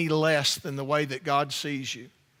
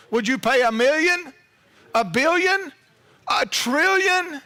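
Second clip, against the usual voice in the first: climbing higher and louder with each number; building preaching shout; 9 semitones higher, 5 dB louder than usual. Real, not acted. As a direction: push every figure up to a ringing trillion. Preacher escalating the price.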